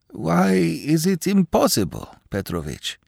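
put-on high, pleading like a small child. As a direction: beg like a little child. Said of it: "almost in the pleading voice of a child".

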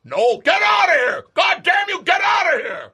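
full-throated high scream. Acted. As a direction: scream her out of the room. Santa screams at his wife.

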